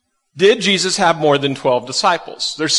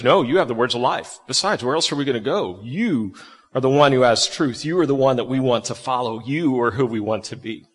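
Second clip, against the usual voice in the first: low, soft, earnest reply; sincere devotion; 5 semitones lower, 5 dB quieter than usual. Acted. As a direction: answer quietly, with understated devotion. Peter's devoted answer to Jesus, acted.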